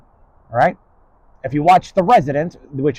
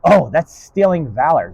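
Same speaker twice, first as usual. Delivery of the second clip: mock accusation; 5 dB louder than usual.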